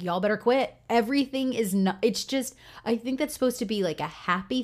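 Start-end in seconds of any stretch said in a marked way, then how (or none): 0.0-0.7 mildly stern parent meaning business; lightly irritated warning to the kids; serious warning. Retold or imitated. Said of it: "they know I'm serious".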